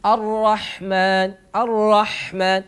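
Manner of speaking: slow "الرحمن" with a longer ح; lengthened ح. Shown as a demonstration. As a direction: give the ح in "الرحمن" extra time before the م. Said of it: "فنقوم بزيادة طول وقت هذا الحرف".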